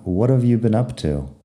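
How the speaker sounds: "What have you been up to" run together into one phrase; connected speech. Shown as a demonstration. Teacher showing students the joined pronunciation, connected speech. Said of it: "Lo junto un poco y lo digo rápido".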